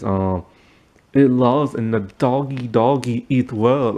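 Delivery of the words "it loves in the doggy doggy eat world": lightly imitated Hispanic accent; Gloria's Hispanic accent. Showing how Gloria used to talk, light Hispanic accent. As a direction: put on a mild Hispanic accent, stretching the last words. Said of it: "she used to talk like this".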